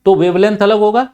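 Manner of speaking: demonstrating speaking loudly; loud demo. Shown as a demonstration. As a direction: raise the voice to show a loud sound. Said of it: "तेज चिल्ला के बोलूं".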